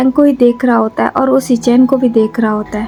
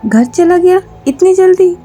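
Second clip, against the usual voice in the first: surprised; 6 semitones higher than usual. A narrator's reading. Chang hears Yao went home early, surprised. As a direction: pitch jumps up in disbelief.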